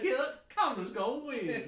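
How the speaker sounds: high, slow, laughing redneck drawl; redneck take on a singer. Retold or imitated. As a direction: stretch it out in a hick twang. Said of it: "like a redneck".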